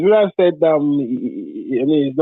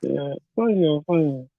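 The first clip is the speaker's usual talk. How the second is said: barely audible; 5 dB quieter, much slower than usual. Real, not acted. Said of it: "Sir, your voice is very low".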